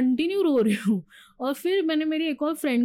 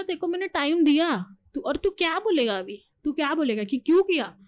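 angry; 3 semitones higher than usual. Retold or imitated. Retold fight with boyfriend.

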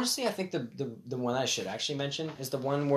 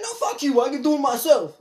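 high, raised retold outburst; mock indignant refusal; 10 semitones higher, 5 dB louder than usual. Retelling an old man refusing help crossing, mock indignation. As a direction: imitate a stubborn old man.

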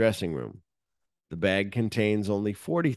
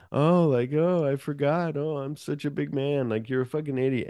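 mocking taunt; 5 semitones higher than usual. The speaker mocking Lewis in parking lot.

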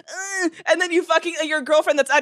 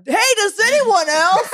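slow, high mocking sing-song; mocking the phrasing; 7 semitones higher, 5 dB louder, slower than usual. Mocking a Reddit post's opening, slow and sneering. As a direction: sneer the question out slowly. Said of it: "It's the phrasing".

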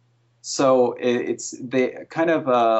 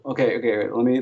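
normal talking voice

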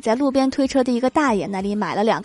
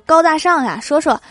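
higher, louder eager interest; curious; 6 semitones higher, 6 dB louder than usual. Retold or imitated. Sister to brother about his project, curious and eager. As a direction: react impressed and press for details. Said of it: "我一阵好奇".

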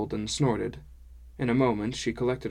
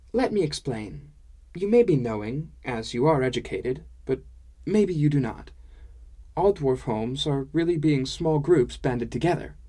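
higher, lilting dwarf-woman voice; higher-pitched dwarf woman, instructing; explaining dwarf woman; 4 semitones higher, 4 dB louder than usual. Acted. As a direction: explain patiently in a lilting character voice.

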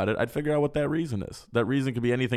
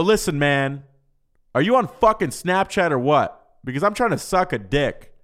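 louder, pushy acted ultimatum; blunt mock demand; 3 semitones higher, 5 dB louder than usual. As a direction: confront him bluntly, played for laughs. Acted blunt demand in his apartment.

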